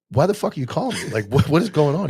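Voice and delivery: mock-irritated half-asleep retort; exasperated. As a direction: demand to know why he's calling. Retelling confused late-night call.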